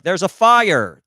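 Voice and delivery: high, slow American-accented yell; exaggerated American accent. Shown as a demonstration. Newcomer switched over to American, slow high American-accented alarm. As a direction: drag out FIRE in American vowels. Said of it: "switching over and be like".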